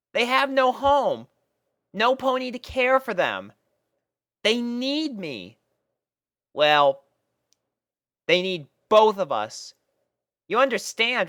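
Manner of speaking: put-on a young mare pleading gently with her pet; Rainbow Dash voice, tender and pleading. A narrator's reading.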